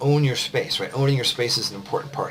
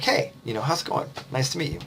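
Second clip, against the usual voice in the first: bright higher greeting, open and inviting; a warm, welcoming hello with a bigger smile; 4 semitones higher, 4 dB quieter than usual. Shown as a demonstration. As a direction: greet them like you're glad they came. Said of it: "open, warm, and inviting".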